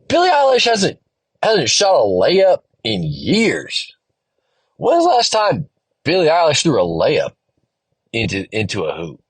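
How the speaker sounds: half-joking rant about a pop star's layups; mock disbelief. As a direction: pitch jumps high on the name, then slows. Mocking the singer in his head.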